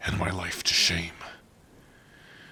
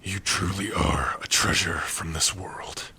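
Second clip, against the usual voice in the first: tender whisper; 2 semitones lower than usual. Acted. Tender words to partner.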